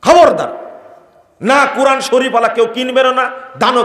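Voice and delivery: high, loud warning cry; preacher warning the faithful loudly; stern loud warning. Real, not acted. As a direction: forbid it forcefully.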